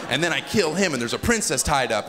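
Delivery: normal talking voice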